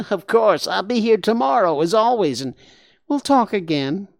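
high, loud nasal creature, disgusted; a wet-voiced warthog saying yuck.

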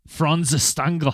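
half-hearted German accent attempt. Host retries the name for cohost, weak German accent. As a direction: try the name in a not very good German accent. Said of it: "that's here German now".

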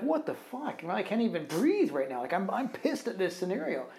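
high, incredulous mock outburst; indignant retold complaint, not shouted; retold exasperation. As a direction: replay your own anger, half-acted.

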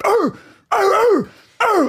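high, imitated dog snarl; high mock dog barks; growling dog. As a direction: mimic a pit bull going wild. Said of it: "pit bull that is going".

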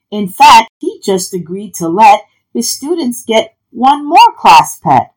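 animated storybook narration; reading to children. A narrator's reading. Narrator wrapping up the tale for children, animated story reading. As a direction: tell the happy ending with punched key words. Reads picture book aloud to children.

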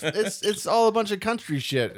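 high, slow, laughing dismissal; laughing through it. Real, not acted. Laughing while mocking the Oklahoma music. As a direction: laugh the words out.

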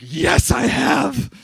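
drawn-out, put-on affirmation; mock reply. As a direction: mimic a listener with a slow, stretched yes. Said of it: "Some of you are like".

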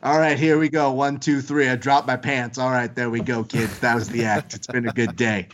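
lightly voiced old vaudeville comic; hint of a weary stage act running through its patter; old vaudevillian. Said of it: "sounded like an old vaudevillian".

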